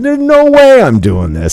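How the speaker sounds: high, hammed-up panic; comic high-pitched no way; mock panicked refusal. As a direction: squeal it like you just changed your mind in fright. Retold refusal out of fear.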